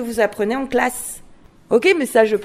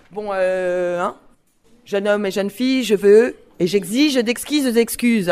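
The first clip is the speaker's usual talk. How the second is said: composed, lower-pitched request; formal demand; 5 semitones lower than usual. Shown as a demonstration. Teacher demonstrates a diction sentence to children, composed demand. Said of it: "c'est pas du tout moi qui m'adresse à vous en vous disant".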